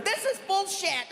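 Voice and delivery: slow, high, laughing complaint; mock fed-up groan. A fed-up friend, slow and exasperated. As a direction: drag it out, exasperated. Voicing the falcon owner after weeks.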